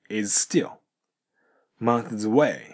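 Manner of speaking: "is still" joined on one S and "months away" linked as "monthsaway"; linked S sounds. Shown as a demonstration. Teacher showing students the linking. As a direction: run the S sounds on into the next word. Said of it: "SとAがくっついて".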